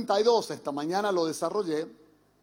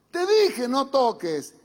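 a hint of a father's I-told-you, higher and louder; scolding father; 4 semitones higher, 4 dB louder, slower than usual. Father scolding the child who touched the plug, lightly voiced. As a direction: tell the child off, lightly acted.

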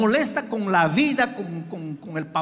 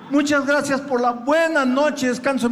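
laughing through the rote thanks; mock the empty thanks with a laugh; 3 semitones higher than usual. Se burla del agradecimiento rutinario. (agradecimiento burlón entre risas)

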